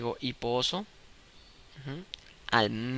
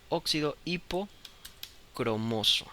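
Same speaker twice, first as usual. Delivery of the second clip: slow dictation; 2 semitones higher, much slower than usual. Shown as a demonstration. Dictates name while writing.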